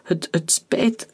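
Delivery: slow, halting, faltering words; stammering. Acted. Wounded Daniel stammers an apology to the major-general. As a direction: stumble weakly over the words. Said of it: "stamelde Daniel".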